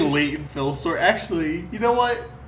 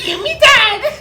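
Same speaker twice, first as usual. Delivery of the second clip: high, loud Cockney wail; laughing Cockney screech; Cockney accent; 10 dB louder, slower than usual. Retold or imitated. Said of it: "Pat did a voice that's basically like".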